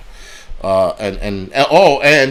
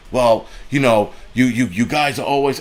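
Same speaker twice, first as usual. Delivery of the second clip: mock stammer. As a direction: imitate him stuck on his words. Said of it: "now you're starting to stammer".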